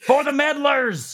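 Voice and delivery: high, slow, booming announcer; dramatic announcer. Acted. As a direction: proclaim it like a show intro. Catchphrase repeated dramatically.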